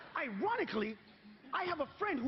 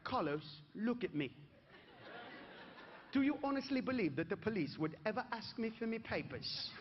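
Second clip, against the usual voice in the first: put-on English accent; 4 dB quieter than usual. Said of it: "looked at me right in the face and went".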